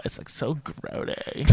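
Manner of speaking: put-on airy, drawn-out valley girl. Mocking the voice he hates with light valley girl voice. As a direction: lean into the SoCal girl, whispery. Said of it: "That's the voice that makes you so uncomfortable".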